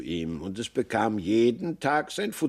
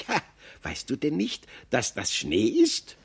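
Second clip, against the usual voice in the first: astonished squirrel. Acted. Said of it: "fragte das Eichhörnchen erstaunt".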